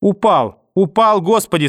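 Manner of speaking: panicked cries. A narrator's reading. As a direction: cry out in horror that he fell. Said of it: "слышал я далёкие крики".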